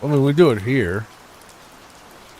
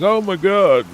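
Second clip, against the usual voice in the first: imitating terror; 6 semitones higher, slower than usual. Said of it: "she was terrified of those things".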